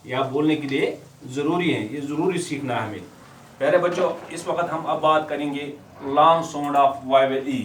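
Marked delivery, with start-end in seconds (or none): 6.0-7.6 slow modelling phrase. Shown as a demonstration. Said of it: "teacher slows to model phrase".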